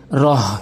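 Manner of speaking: "রহ" with a light, small h; mispronunciation demo. Shown as a demonstration. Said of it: "ছোট হাইনে উচ্চারণ করে".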